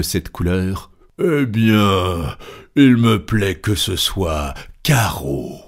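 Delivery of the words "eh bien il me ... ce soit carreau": irritated. Acted. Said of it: "d'une voix irritée".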